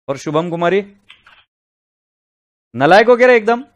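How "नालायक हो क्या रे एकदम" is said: high, loud telling-off; angry scolding. Real, not acted. Teacher berates giggling student on phone, furious shout. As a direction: really let the student have it. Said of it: "मैं डांट रहा हूं".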